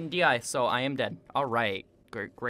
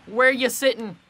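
squeaky, much higher, louder mock outrage; high mock yell; 11 semitones higher, 9 dB louder than usual. Real, not acted. Gamer taunting opponent standing oddly, high squealing yell. Mocking opponent's odd spot.

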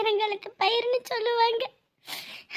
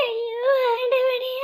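drawn-out grieving cry to God; slow anguished wail; much slower than usual. Acted. Mother crying to God for her son, slow anguished wail. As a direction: stretch it out in despair.

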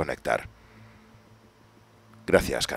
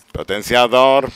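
slow drawn-out call; 5 semitones higher, 6 dB louder, slower than usual. Real, not acted. Gamer calling out a power-up, slow and drawn out. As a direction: stretch out potenciador slowly.

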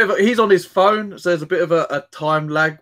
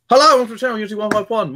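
higher, louder host greeting; upbeat channel intro; 9 semitones higher, 4 dB louder, much faster than usual. Shown as a demonstration. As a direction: launch the video like a YouTube host. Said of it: "You just ruin my intro".

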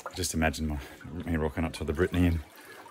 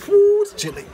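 cold shock; 9 dB louder than usual. Real, not acted. Stepping into cold water.

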